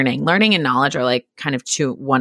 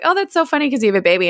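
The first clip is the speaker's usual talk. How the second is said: quick, high, chirpy mom impression; imitating mom; 10 semitones higher, much faster than usual. Mom teasing about the sweatshirt, quick high imitation. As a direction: rattle it off high and fast like mom. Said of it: "my mom was like".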